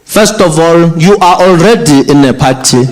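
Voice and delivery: slow stern father laying down the law; stern dad. Retold or imitated. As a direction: drag out each order like an angry father. Father scolding daughter.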